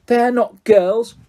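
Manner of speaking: put-on slow, high sulky ghost girl; moody ghost girl.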